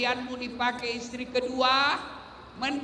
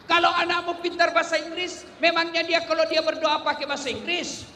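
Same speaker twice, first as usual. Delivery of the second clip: rhetorical challenge; 5 semitones higher, 3 dB louder than usual. Real, not acted.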